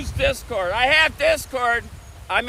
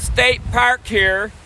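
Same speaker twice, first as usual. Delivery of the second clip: slow, spaced-out words for viewers; slow down so the chat can follow; deliberately slow; slower than usual. Shown as a demonstration. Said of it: "Let me speak slower".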